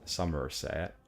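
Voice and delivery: Somerset drawn out in a farmer accent, r sounded; rustic Somerset-accented SOMERSET, syllables stretched. Shown as a demonstration. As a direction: attempt a West Country farmer's Somerset, rising at the end. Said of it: "farmer accent of Somerset".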